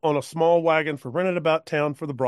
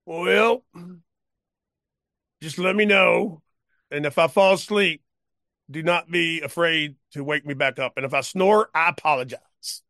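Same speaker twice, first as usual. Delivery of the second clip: put-on drunk cowpoke; 3 semitones higher than usual. Drunk cowpoke offering the woman a ride, high and loose. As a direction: slur it like a tipsy old man.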